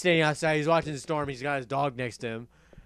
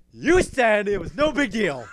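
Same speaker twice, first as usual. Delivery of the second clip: raised, louder, drawn-out accusation; mock indignant protest; 6 semitones higher, 5 dB louder than usual. Fat Man accusing the friend who played it down, mock outrage. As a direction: imitate a panicked friend protesting slowly.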